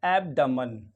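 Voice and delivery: एब्डमन with a weak schwa "duh" middle; demo pronunciation. Shown as a demonstration. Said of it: "क्या पढ़ेंगे? डा।". (एब्डमन को "ऐब-ड-मन" बोलें)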